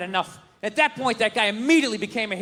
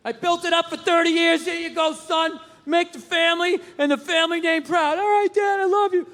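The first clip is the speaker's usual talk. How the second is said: proud dad voice; 5 semitones higher than usual. Acted.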